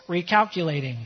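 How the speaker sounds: a hint of navigation voice, slightly low; GPS voice. Pastor voicing GPS at a proposal, mock robotic. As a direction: say it like the GPS rerouting. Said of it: "you hear the voice".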